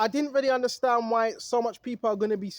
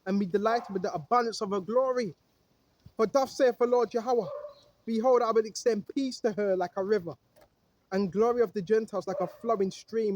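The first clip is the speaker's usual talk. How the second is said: lower, measured Bible reading; scripture reading; 3 semitones lower than usual. Acted. Preacher reads Isaiah to his viewers, solemn and low. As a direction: read the verses like holy writ.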